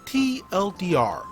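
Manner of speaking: plain reading voice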